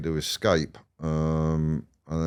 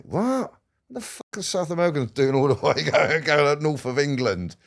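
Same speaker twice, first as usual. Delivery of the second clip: much higher, incredulous outburst; disbelief; 9 semitones higher than usual. Retold or imitated. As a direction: sound gobsmacked at the absurd news. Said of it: "I go".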